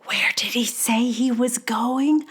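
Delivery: puzzled mock whisper. Viewers whispering to each other about a show, mock whisper. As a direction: whisper it to the person next to you. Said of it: "That's when we start whispering to each other".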